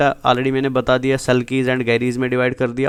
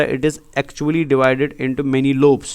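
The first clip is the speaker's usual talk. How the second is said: each word spelled out very slowly for notes; slow it right down so students can write; slow dictation; much slower than usual. Shown as a demonstration. Teacher dictating a definition slowly.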